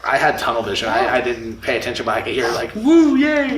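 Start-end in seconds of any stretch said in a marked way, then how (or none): 2.7-3.6 imitated crowd cheer.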